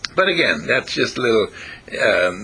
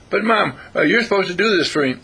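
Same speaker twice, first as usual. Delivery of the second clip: a higher mock-whiny kid's protest; whiny child; 7 semitones higher than usual. Mother mimicking her child's protest with mock whining. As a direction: play the entitled kid, pitched up.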